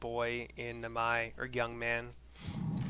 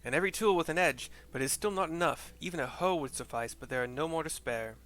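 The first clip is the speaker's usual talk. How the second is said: lightly voiced teen boy, raised; a hint of an eager young villager; teenage boy; 4 semitones higher, 4 dB louder than usual. Streamer voicing a teenage boy reporting to Issei, lightly raised. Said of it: "says a older teenage man".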